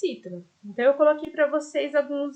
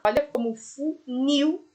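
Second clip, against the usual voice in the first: funil said slowly, nil stronger than fu; stress on nil. Shown as a demonstration. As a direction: lean on the last syllable of funil, slowly. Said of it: "o nil tem um som muito mais forte do que o fu".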